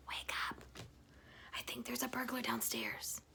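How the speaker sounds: breathy, voiceless urgent whisper. Acted. Wife waking husband at night, frightened whisper. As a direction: hush it so the burglar can't hear. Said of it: "she whispered".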